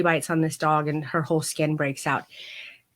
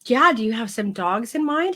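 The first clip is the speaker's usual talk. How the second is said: hesitant, slightly high coy question; coy, flirtatious; 4 semitones higher than usual. Retold or imitated. Client responds to vet's doggy date offer, mildly coy. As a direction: lightly imitate flirty hesitation. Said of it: "how coy and flirtatious I was being".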